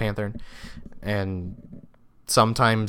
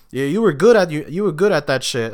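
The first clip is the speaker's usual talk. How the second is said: high, punchy retold compliment; enthusiastic praise; 5 semitones higher, 6 dB louder than usual. Imitating a guy praising him from school, enthusiastic praise.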